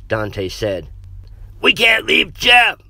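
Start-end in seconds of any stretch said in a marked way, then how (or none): 1.6-2.8 high, loud protest; desperate scream. A narrator's reading. Aaron refuses to abandon injured friend, screaming. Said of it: "Aaron screamed".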